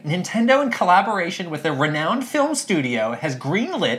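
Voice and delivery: announcer reading breaking news; podcast host read. Acted. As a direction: hype the announcement. Reading a podcast script aloud.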